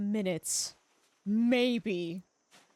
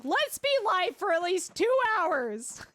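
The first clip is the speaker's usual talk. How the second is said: higher, slow, emphatic mock pleading; retold plea for patience, pitched up; exasperated self-restraint; 5 semitones higher than usual. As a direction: talk yourself down, stretching it out with exasperation. Retold pep talk to self, exasperated.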